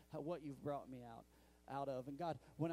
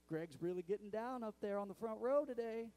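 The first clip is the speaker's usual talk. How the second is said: louder, higher delighted commentary; excited fan; 6 semitones higher, 6 dB louder than usual. Retold or imitated. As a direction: brag about Greg like a proud fan. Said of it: "he just sits there and goes".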